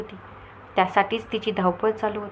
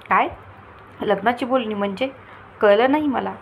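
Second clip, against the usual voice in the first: puzzled surprise. Acted. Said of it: "Rohini आश्चर्याने".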